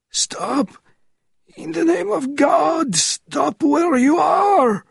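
high slow desperate yell; desperate shout. A narrator's reading. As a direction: shout out to stop them. Tortured man calls out.

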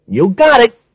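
lightly voiced captain agreeing; police captain voice. A narrator's reading. Captain replies.

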